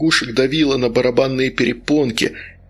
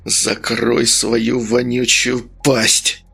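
slow, growled command; harsh slow bark; barked order; much slower than usual. Acted. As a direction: snap at him to shut up. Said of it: "рявкнул Медовар".

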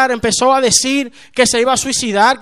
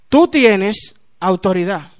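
slow, lower-pitched, deliberate statement; solemn assurance; 4 semitones lower, slower than usual. Retold or imitated. José repeating to the baffled new convert, slow and solemn. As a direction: spell out the truth slowly and firmly.

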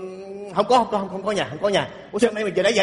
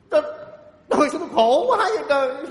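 hammed-up weepy wail, pitched up; tearful lament; 3 semitones higher than usual. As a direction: bemoan being jilted through comic tears. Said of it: "Sao đang vui tự nhiên khóc rồi". (than khóc vì thất tình)

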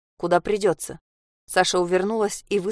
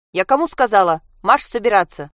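shout; 2 semitones higher, 5 dB louder than usual. Acted. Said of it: "крикнула мама".

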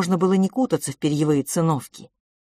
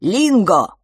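higher, louder call; exclaiming; 4 semitones higher, 8 dB louder than usual. Acted. Creature calls out to his friend, exclaiming. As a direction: call out the name. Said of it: "воскликнул Шико".

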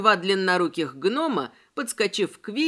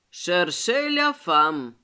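French phrase; 4 semitones lower, much slower than usual. A narrator's reading. Worm speaking French.

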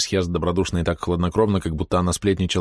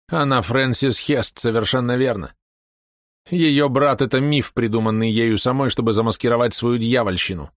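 slow, higher breathless accusation; gasping accuser; 4 semitones higher than usual. Acted. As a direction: spell out her guilt slowly. Maunders exposes her, exhausted. (Мондерс обличает, задыхаясь)

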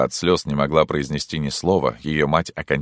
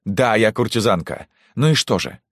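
beside herself; 5 semitones higher than usual. Acted. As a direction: lash out, out of control. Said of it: "возбуждённая, вне себя". (вне себя от гнева)

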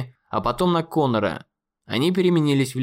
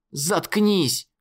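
sharp order, raised pitch; angry command; 5 semitones higher than usual. Acted. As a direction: snap at the bully. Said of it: "приказал Конор".

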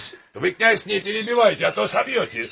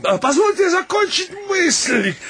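high-pitched call to order; calling for attention; 7 semitones higher than usual. Acted. Chairman to the other suitors, calling for attention. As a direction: raise your voice to win the room.

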